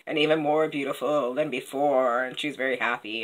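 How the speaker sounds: low, soft fish voice; fish's reply. Acted. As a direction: carry on low and subdued as the fish. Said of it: "And the fish is like".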